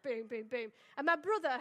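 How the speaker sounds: ordinary talk, nothing marked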